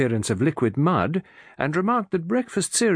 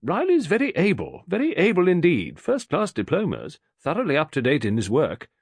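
insistent man; 6 semitones higher than usual. A narrator's reading. Mr Morley defends Riley.

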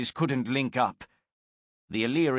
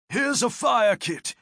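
high, slow call over the oars; raised voice; 11 semitones higher, 4 dB louder than usual. Acted. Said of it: "Martius said".

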